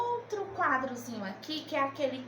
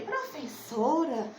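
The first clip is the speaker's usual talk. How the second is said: imagined pupil; 3 semitones higher than usual. Acted. Teacher voicing a pupil's objection, lightly imitated pupil. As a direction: gently imitate a pupil calling the teacher out on something. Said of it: "alguém pode dizer".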